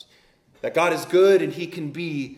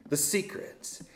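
hushed; 7 dB quieter than usual. Acted. Hushed repeat of "secret.

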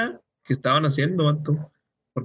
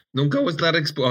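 a sudden squeaky break in the voice; voice cracking. Real, not acted. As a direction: voice cracks mid-word. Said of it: "ay, me salió un gallo". (voz que se quiebra)

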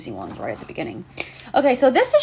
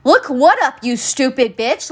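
much higher and louder, indignant; exasperated outburst; 5 semitones higher, 5 dB louder than usual. Real, not acted. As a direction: snap it back in disbelief. Ranting at rude customer.

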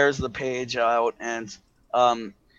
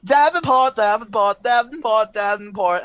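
high, loud, eager chanting of a name; bouncy excitement; 8 semitones higher, 5 dB louder than usual. A narrator's reading. Davenport bouncing around in knight armor, excited. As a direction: chirp the name over and over, easing down slightly. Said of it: "just bouncing around like".

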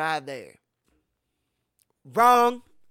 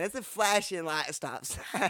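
laughing; 3 dB quieter than usual. Real, not acted. Laughing while telling.

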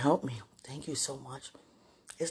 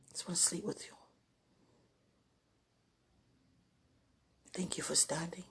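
soft breathy whisper; 4 semitones higher, 5 dB quieter than usual. Real, not acted. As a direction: whisper it close to the mic. Intimate late night prayer call.

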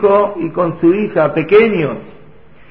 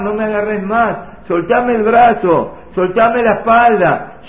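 tearful father's plea; 3 semitones higher than usual. Acted. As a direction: beg her to let go, heartbroken. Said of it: "sufriendo y llorando".

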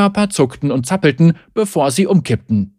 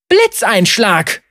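slow battle cry; 6 semitones higher, slower than usual. Acted. Zeri unleashes her power.

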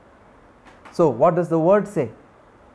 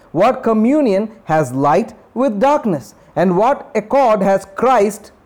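steady, slightly lifted reading voice; scripture reading; 2 semitones higher than usual. Acted. Preacher reading Second Corinthians aloud, steady and lifted. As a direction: read it out as God's word.

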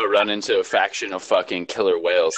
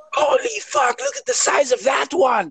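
much higher amazed exclamation; amazed shout. Acted. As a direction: gasp at a huge fish. Acting out movie scene.

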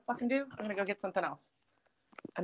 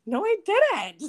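much higher, louder denial with a laugh; 12 semitones higher, 7 dB louder, much slower than usual. Retold or imitated. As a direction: deny it while cracking up.

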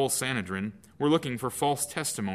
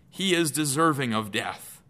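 condemning; 5 semitones higher, 5 dB louder than usual. Acted. Council condemns Jesus.

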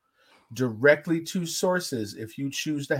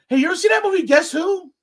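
put-on drunk guy voice; 12 semitones higher, 6 dB louder than usual.

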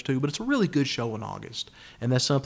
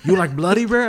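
put-on light Brazilian accent, higher and louder; a hint of a delighted Brazilian waiter; lightly put-on Brazilian accent; 7 semitones higher, 8 dB louder than usual. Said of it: "killer Brazilian accent".

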